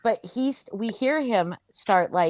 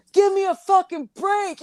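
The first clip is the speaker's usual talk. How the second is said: high exasperated yell; mock angry yell; 11 semitones higher than usual. Annoyed guest shouting through the wall. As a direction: throw up your hands and shout. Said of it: "And he's like".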